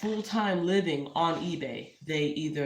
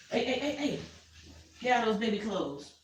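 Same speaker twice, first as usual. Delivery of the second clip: calling the cat off; 5 semitones higher than usual. Real, not acted. Scolding cat off clothes.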